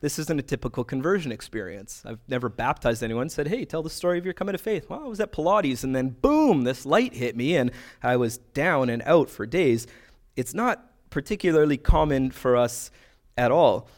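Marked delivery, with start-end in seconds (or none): 3.5-9.9 mock convert testimony. Pastor mimics a convert's testimony.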